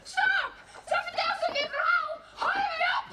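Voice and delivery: high-pitched, agitated interruption; agitated protest. Acted. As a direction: cut in sharply, voice pitched right up. Interrupting the other's story in protest.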